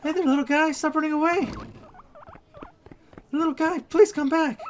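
high-pitched coaxing call; pleading call. Real, not acted. Viewer begging the little hamster back, pleading call. Calling after the runaway hamster.

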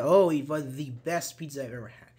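"thee" for "the", stressed before best; emphatic "the". Shown as a demonstration. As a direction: answer with THE stretched to "thee". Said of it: "emphasize how good".

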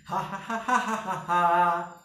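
diaphragm-powered evil laugh; villain laugh. Shown as a demonstration. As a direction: push the laugh from the belly. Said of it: "É essa energia que você vai usar aqui".

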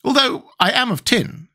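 high-pitched proud character; Tin Woodman's voice. A narrator's reading. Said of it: "said the Woodman".

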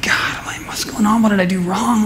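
hushed, breathy plea to God; half-whispered what did I do wrong; retold whispered prayer. Pastor retelling his whispered prayer after the call, hushed. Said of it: "I was crying".

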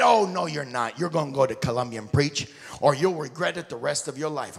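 loud, firm wife voice; imitating a wife who won't hear no; insistent wife. Wife telling husband he must preach, loud and firm.

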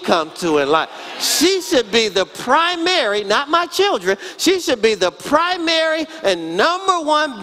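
preacher building fervor about his wife; fervent preaching. Real, not acted. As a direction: drive it home from the pulpit. Preaching at full force.

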